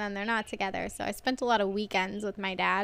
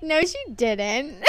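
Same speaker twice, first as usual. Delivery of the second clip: put-on child; slower than usual. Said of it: "And I was like".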